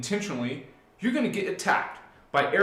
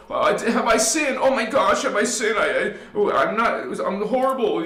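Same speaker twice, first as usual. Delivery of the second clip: worked-up, higher-pitched self-accusation; psycho worrying; 4 semitones higher, 3 dB louder than usual. Acted. Teenage believer begging to know if they sinned, frantic. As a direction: spiral into frantic guilt, tripping over words. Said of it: "You go psycho, you go cuckoo".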